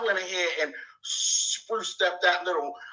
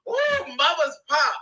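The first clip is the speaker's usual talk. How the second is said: lightly voiced preening rival, slow and higher; mocking her boast; 9 semitones higher, slower than usual. Streamer mimics the rival's boast in a slow, higher mocking voice. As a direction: mimic her smug self-praise. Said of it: "She said".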